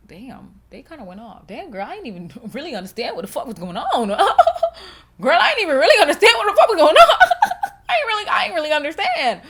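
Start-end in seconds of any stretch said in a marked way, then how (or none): 1.5-5.2 breaking into laughter mid-sentence; laughing. Real, not acted. Admitting confusion after reading a heated comment, laughing. 5.2-9.4 loud, high, cackling through the words; laughing hard. Real, not acted. Repeating to viewers that she was lost, laughing loudly. Cracking up, repeats herself louder.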